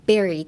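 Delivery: "ベリー" starting with both lips bouncing apart. Shown as a demonstration. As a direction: pop a clear B to begin "ベリー". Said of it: "唇と唇のなんかバウンス".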